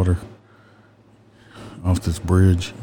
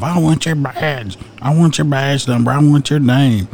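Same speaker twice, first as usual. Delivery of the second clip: much higher, whiny imitation of an angry driver; mock angry driver; 5 semitones higher than usual. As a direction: parody the driver demanding a badge number. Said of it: "he gets pissed off".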